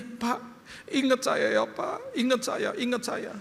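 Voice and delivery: imitating a quiet, desperate driver; pleading driver. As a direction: beg him to remember you, softly.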